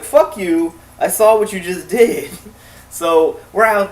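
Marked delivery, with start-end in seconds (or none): 0.0-2.3 angry bunny. Retold or imitated. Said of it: "he's like".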